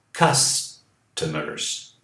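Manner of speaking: Customers very slowly, vowels drawn out; slow model. Shown as a demonstration. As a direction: stretch out Customers syllable by syllable. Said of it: "A, E, E".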